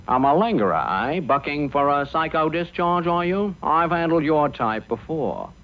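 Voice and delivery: lightly voiced suspicious psychiatrist; army psychiatrist. Psychiatrist accuses the boy of malingering, suspicious questioning. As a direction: question him like a knowing examiner. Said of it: "He went to the psychiatrist".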